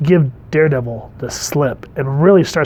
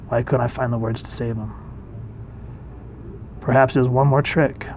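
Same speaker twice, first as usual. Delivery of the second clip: subdued, softer comic-book narration; brooding inner monologue; 5 dB quieter than usual. Acted. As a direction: read it quietly as a hero doubting himself. Reads hero's brooding inner monologue.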